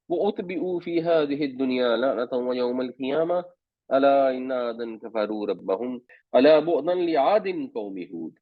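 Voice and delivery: measured, chanted Arabic recitation; Quran recitation. Real, not acted. Teacher recites the verse for his class in measured chant. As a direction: recite the verse with tajweed cadence.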